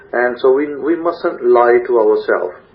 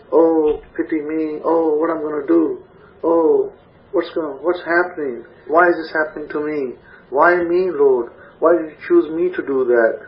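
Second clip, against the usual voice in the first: mock self-pity; 2 semitones higher than usual. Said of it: "you don't just sit there and say".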